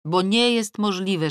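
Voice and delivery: plain reading voice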